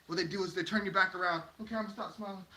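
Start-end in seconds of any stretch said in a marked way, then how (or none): 1.6-2.4 much softer, small reply; meek giving in. Acted. Person yielding to critics' demands, acted meekness. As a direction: shrink back and comply under your breath.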